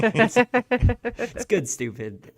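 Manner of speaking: stupid stretched slow and high; high drawn-out. Real, not acted. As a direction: drag out it's good stupid high. Laughing, drawing out the phrase.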